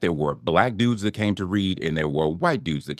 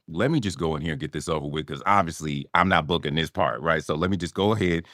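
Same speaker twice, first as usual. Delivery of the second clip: softer, lower muttered inner monologue; resigned self-talk; 4 semitones lower, 6 dB quieter than usual. Retold or imitated. Actor convinced he won't get the part, resigned self-talk. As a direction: talk yourself through it, low and quiet.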